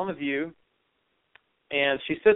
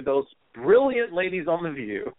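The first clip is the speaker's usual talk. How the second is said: sarcastic. Real, not acted. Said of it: "I apologize for my sarcasm there".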